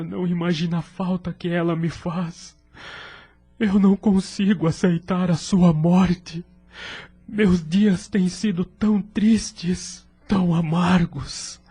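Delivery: grieving widower. Acted. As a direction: hold back tears as the grief breaks through. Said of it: "esforçava-se para não chorar".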